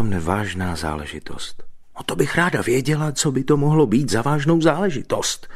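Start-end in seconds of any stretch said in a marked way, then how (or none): 2.0-5.5 high, quick, caustic retort; tense sniping, pitch raised; strained sarcasm. A narrator's reading. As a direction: needle him with forced mockery. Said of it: "řekla s křečovitou uštěpačností".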